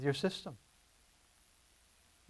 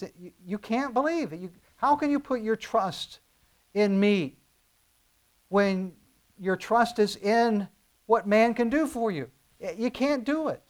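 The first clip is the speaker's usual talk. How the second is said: impassioned plea; 6 semitones higher, 5 dB louder than usual. Real, not acted. Impassioned preaching climax.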